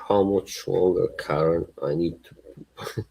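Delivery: lightly attempted Irish accent; put-on Irish accent. Asking Karen how much longer, mock Irish accent. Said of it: "This sounds like Irish".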